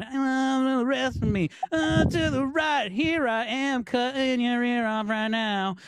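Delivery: slow, unhurried menace; a hint of calm Michael Madsen menace, slowly. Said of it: "Michael Madsen from Reservoir Dogs".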